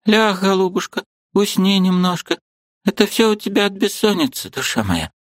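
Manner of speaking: put-on high, tender old woman's voice; comforting old aunt. A narrator's reading. Aunt Marfa comforting her niece, high and tender. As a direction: soothe the girl like a grandmother.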